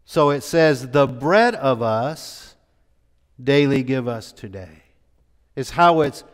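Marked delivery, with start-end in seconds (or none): 0.9-4.8 preacher reading the Greek word order, stressing bread. Shown as a demonstration. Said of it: "it's the bread that is emphasized".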